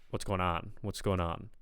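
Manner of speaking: "What's going on?" with a light New York accent; hint of Brooklyn New York in "going on"; New York-tinged. Shown as a demonstration. Coach echoes what they are hearing, New York-tinged. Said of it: "But I'm kind of hearing".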